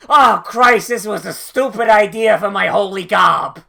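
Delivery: hammed-up cry of a blindfolded priestess; mock panicked priestess.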